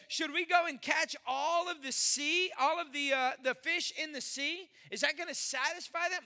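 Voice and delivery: hammed-up sarcastic disbelief; sarcastic Moses. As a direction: Moses pushes back at God with sarcasm. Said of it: "A little bit of sarcasm".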